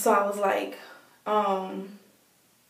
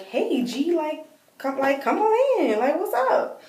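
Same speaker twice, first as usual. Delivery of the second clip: retold casual welcome; 8 semitones higher, slower than usual. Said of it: "he lets me in like normal".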